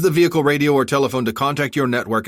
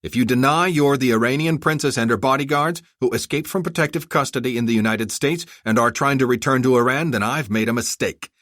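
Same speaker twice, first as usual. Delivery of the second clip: stern ultimatum, raised and forceful; menacing, angry; 6 semitones higher, 4 dB louder than usual. A narrator's reading. Armored rescuer warning the bodyguards to choose, angry menace. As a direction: lay down the terms hard, pitched up. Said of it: "menacingly to emphasize his point".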